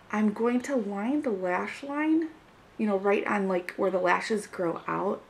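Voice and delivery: muffled behind a hand; hand over mouth. Real, not acted. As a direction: talk through your fingers. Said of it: "I'm got my hand over my mouth".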